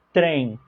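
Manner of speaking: "trem" said softly, nasal ending; Brazilian pronunciation. Shown as a demonstration. Teacher to students, showing how Brazilians say it.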